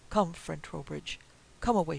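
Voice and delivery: crying out. Acted. Frenchman hurrying his friend from the parsonage, calling out. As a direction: urge your friend away, half calling. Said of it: "he cried".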